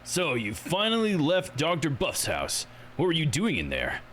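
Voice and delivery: slow, faintly pompous questioning; pompous politician. Acted. Politician questioning villagers outside Doctor's house, lightly haughty.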